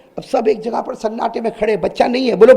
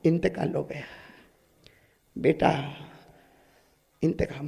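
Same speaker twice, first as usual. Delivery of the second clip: soft, broken tearful words; a hint of sobbing; crying daughter; 5 semitones lower, 14 dB quieter than usual. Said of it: "بیٹی نے روتے روتے کہا". (روتی ہوئی بیٹی)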